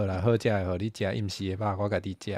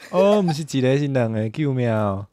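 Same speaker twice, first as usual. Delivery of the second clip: mock cry for help; 5 dB louder than usual. Gamer finding two attackers and calling for rescue, mock panic. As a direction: call out in playful panic.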